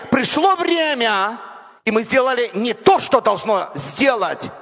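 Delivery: normal talking voice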